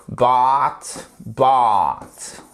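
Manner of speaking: "bought" with a long open A, close to French A. Shown as a demonstration. Teacher drilling "bought" with a long A for French learners. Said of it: "comme un A long".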